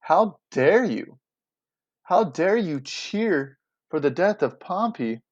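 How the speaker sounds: slow, acted outrage; scolding a crowd, understated; mild indignation. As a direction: draw out the reproach. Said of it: "Marcellus is pretty much saying".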